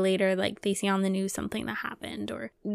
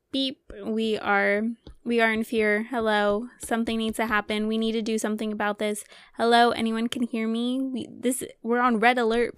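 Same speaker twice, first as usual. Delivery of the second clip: urgent mock alarm voice; mock panic alarm; 3 dB louder than usual. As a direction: sound the alarm, hammed-up.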